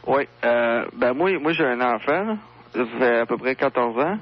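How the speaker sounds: talking down a telephone line; radio show caller. Real, not acted. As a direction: voice over a phone line. (auditeur au téléphone)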